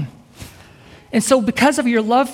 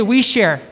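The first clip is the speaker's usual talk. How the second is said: firm call-and-response line; lead the crowd. Shown as a demonstration. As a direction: call out "We share" for the crowd to echo. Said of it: "Now say".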